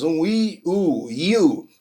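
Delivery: I U said first apart, then glided together; extra vowel sound. Shown as a demonstration. Teacher giving Brazilians an extra vowel, I U sounded out. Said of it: "um som de vogal a mais".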